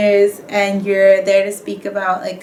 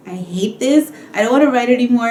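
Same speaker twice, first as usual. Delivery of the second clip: exasperated, a bit louder and higher; fed-up whine; 4 semitones higher, 4 dB louder than usual. Retold or imitated. Grad student stuck on her thesis, exasperated whine. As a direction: groan it like you're sick of writing. Venting about writing the thesis.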